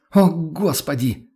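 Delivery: high, slow strained wail; a freezing woman crying out to the innkeeper; anguished cry. Acted. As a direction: cry it out in desperation. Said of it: "надрывно выкрикнула она".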